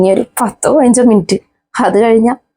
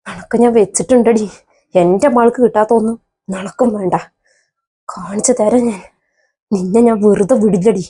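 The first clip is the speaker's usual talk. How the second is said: quiet menace; 3 dB quieter than usual. Acted. Mother quietly vows revenge.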